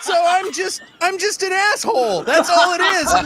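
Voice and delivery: high, laughing self-mockery; laughing at himself. Waiter realizing his mistake, laughing high. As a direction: laugh through the admission of being a jerk. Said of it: "And I'm like".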